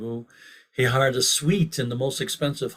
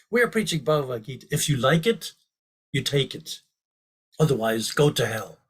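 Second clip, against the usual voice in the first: fired up. Retold or imitated. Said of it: "like, fired up".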